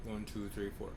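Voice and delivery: counting through a yawn; words stretched by a yawn. Real, not acted. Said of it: "I'm yawning".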